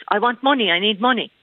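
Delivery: a hint of a pleading kid; quoted child's demand. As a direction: lift the pitch to mimic a child's demand. Quoting the boy's exact demand.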